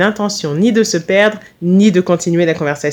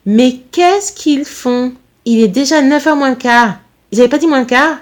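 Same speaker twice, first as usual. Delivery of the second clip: higher-pitched worried mother; raised pitch, impatient outburst; exclaiming; 5 semitones higher than usual. Acted. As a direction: exclaim in fretful disbelief. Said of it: "elle s'exclama".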